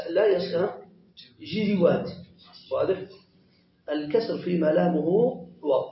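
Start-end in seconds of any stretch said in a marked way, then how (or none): 1.4-2.1 جروات with an i after both j and r; irregular plural form. Shown as a demonstration. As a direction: sound out جروات as ji-ri-waat. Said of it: "الآن نحن نقول".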